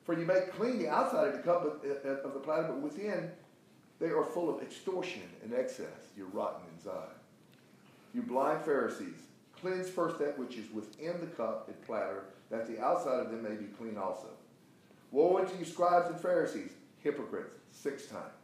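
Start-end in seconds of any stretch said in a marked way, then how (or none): 0.0-6.1 emphatic preacher reading, key words punched; forceful scripture reading. Acted. Reads scripture forcefully to class. 8.1-17.6 emphatic preacher reading, key words punched; forceful scripture reading. Acted. Reads scripture forcefully to class.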